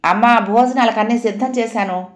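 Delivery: called from the kitchen; a light call across the house. Acted. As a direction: raise the voice to call mother. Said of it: "వంటింట్లో నుంచి పిలిచింది".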